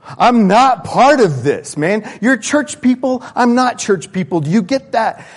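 an outsider's fed-up outburst; defiant outsider. Acted. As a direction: shove back at the church people. Outsider pushing back at church.

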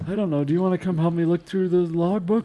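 a lightly voiced old man, easily distracted. GM old man NPC continues.

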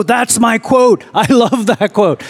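delighted. Retold or imitated. Retelling his own joy at the teacher's quote, high and laughing. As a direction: squeal it like a fan hearing his favorite line.

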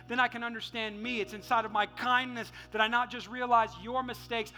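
steady, insistent run of blessings; preached benediction. Real, not acted. Pastor blessing the church to be kind, insistent preaching. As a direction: press on phrase after phrase, building gradually.

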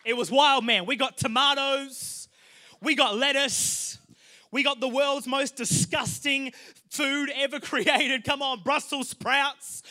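loud, slow, hammed-up hype; mock excitement. Preacher hyping up a tame grocery run, loud and mock-epic. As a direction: hype up the groceries like a wild night.

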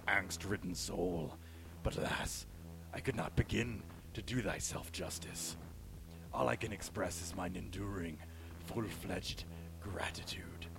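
dark villain voice, sinking to whispers; a dark lord dropping into a whisper; Shadow Lord voice. Acted. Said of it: "I need, like, a Shadow Lord voice".

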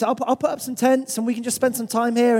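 a hint of an eager Peter; excited Peter. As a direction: gush like Peter, thrilled at the view. Peter planning the camp.

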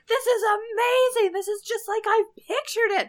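high, loud, gushing delight; thrilled. Retold or imitated. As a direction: squeal with tourist wonder. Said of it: "he's just like".

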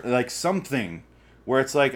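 ordinary talk

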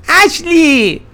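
high, eerie ghostly call. Acted. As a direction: call her name from outside the window like a ghost. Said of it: "a ghostly voice in the night".

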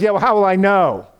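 lightly voiced Abraham pushing for proof; Abraham asking. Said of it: "Abraham says".

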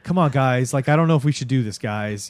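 put-on hesitant kid tugging at friends' sleeves; nervous Dustin. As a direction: beg the group to turn back, rushing the worry. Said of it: "Dustin has that chunk feel the whole time".

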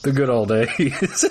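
wistful. Pretend. Wistful mock nostalgia.

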